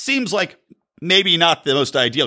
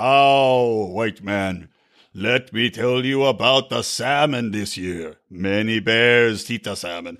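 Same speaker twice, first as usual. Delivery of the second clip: very low, very slow, dragged-out speech; 8 semitones lower than usual. Speaker mocks a stereotype with a character, Golden Bear, speaking very slowly. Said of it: "Indians are speaking really slowly all the time".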